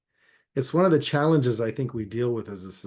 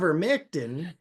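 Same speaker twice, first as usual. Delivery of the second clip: ivermectin with a light Southern twang; a twangy Southern ivermectin; hint of Southern twang; 5 semitones higher than usual. Shown as a demonstration. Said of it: "is more of a twang".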